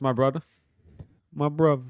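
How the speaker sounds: lightly put-on Brazilian accent; rough Brazilian-accent catchphrase; attempted Brazilian accent. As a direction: imitate a Brazilian fighter, not very well. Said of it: "in that perfect, like, Brazilian accent".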